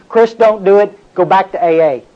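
firmer inner voice. Retold or imitated. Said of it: "I heard".

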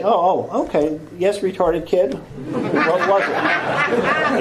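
high, laughing mock teacher voice; teacher mocking the slow kid, high and laughing. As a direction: sneer it out high as a condescending teacher. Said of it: "the teacher's gonna say".

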